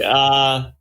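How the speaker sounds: a puzzled, lightly voiced delivery man; unsure delivery man.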